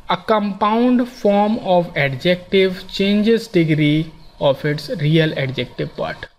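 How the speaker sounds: slow, careful reading of a grammar rule. Shown as a demonstration. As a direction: dictate each phrase slowly to the class. Reads rule text slowly. (धीमे-धीमे नियम पढ़ना)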